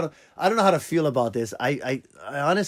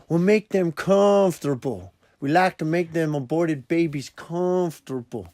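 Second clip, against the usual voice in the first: put-on southern accent. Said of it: "that governor southern accent".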